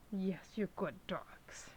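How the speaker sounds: soft unvoiced whisper to the dogs; whispered praise to the good dogs. Real, not acted. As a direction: breathe the praise out gently.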